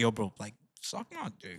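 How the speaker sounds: muttering under the breath. Retelling a reaction after a man turned down offered water: imitating muttering under breath. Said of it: "I think under my breath, I was like".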